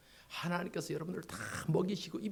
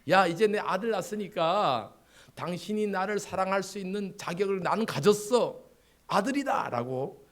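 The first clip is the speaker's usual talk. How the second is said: mock triumphant shout; 4 semitones higher, 4 dB louder than usual. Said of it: "소리쳤던 그 이름이".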